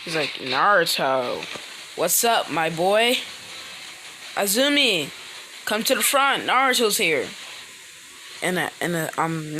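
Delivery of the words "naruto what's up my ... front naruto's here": lightly voiced jolly old man; nice elderly voice. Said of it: "nice elderly voice".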